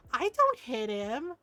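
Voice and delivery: put-on slow, drawn-out childish denial; denying little kid. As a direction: imitate a small child protesting innocence. Retold small child denying it.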